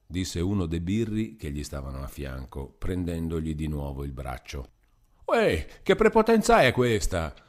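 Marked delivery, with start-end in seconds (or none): 5.2-7.3 high, loud outraged cry; indignant shout. A narrator's reading. Renzo yells at the guard grabbing his arm, outraged. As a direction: shout in protest, pulling the arm away. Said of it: "gridò Renzo ritirando il braccio".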